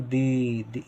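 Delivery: दी with the ee held long. Shown as a demonstration. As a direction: stretch the vowel in दी. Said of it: "ई की आवाज़ आ रही है तो बड़ी".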